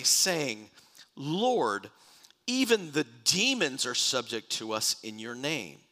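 solemn, emphatic Bible reading; preacher reciting a psalm; scripture reading. Acted. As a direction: read it out as a measured proclamation. Reads scripture aloud.

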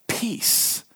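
peace, just whispered. Acted. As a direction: breathe the word peace as a whisper. Preacher repeats key word.

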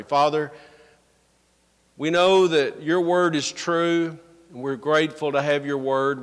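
even, subdued prayer, easing down toward the amen; public prayer. Real, not acted. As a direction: lead the congregation in earnest prayer. Leads the congregation in prayer.

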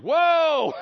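high loud whoa; startled whoa. Retold or imitated. Demons caught by Jesus's glance, a loud mock fright. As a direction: jump back in fright. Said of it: "they're like".

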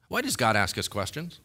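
ordinary talk, nothing marked

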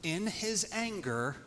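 slow, every phrase weighted; slowed-down emphatic preaching; dramatic slow build. Acted. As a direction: hold back, then land on grace. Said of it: "now catch this".

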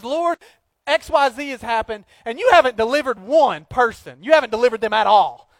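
loud, high, accusing protest; Moses confronting God. Retold or imitated. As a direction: call God out boldly. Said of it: "He says".

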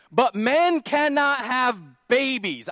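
preaching at full force; emphatic. Real, not acted. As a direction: pound each word from the pulpit. Preacher pounding his point.

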